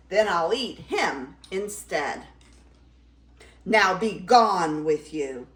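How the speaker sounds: moderately shouted command; shouting troll. Acted. Troll dismissing Middle Gruff, moderate shout. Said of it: "he shouted".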